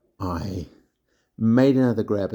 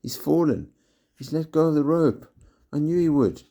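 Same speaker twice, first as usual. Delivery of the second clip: high, excited shouting from above; children shouting; 8 semitones higher than usual. A narrator's reading. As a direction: call out that he has fallen. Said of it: "heard them shouting up above me".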